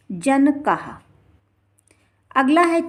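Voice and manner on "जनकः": जनकः ending in a full "ha", "jan-ka-ha"; visarga as ha. Shown as a demonstration. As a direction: sound out जनकः with the final ha. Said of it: "हा उच्चारण इसका होगा". (जनकः, अंत में हा का उच्चारण)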